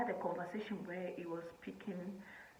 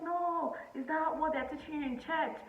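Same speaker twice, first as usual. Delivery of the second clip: mom's scolding; 10 semitones higher, 5 dB louder than usual. Retold or imitated. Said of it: "it's just like".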